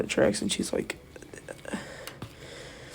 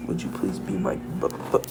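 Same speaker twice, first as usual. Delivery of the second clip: stuttering. Acted. Girl confessing to him in class, stuttering. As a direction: stammer on the last word. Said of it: "like, stuttering".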